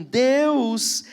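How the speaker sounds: slow, weighty reading of the psalm; solemn scripture reading. Acted. Pastor reading Psalm forty-six to the church, slow and solemn. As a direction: let each line of the psalm land slowly.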